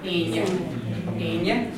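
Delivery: Enya with a full slender ny in the middle; double N. Shown as a demonstration. Teacher giving the Irish for Friday, double N. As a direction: say Enya with the n melting into y. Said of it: "we say like a, a double N".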